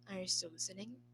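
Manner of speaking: quiet, crisp check-in; crisp low voice. Acted. Retainer checking the emperor is listening, low and crisp. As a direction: ask it low and precise. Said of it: "in a crisp yet low voice".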